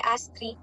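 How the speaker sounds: "ice cream" with ice flattened to "ass"; rural Punjabi ice cream. Retold or imitated. Imitating rural Punjab speakers saying ice cream, regional pronunciation. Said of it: "instead of ice, they say".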